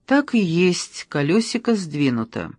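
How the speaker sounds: ordinary delivery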